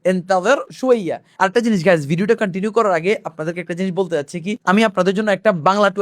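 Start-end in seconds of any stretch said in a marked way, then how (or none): 0.0-1.2 slow, clear model line for students to copy; slow for repeating. Shown as a demonstration. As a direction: say it slowly so the class can repeat. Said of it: "আমাদের সাথে বলুন".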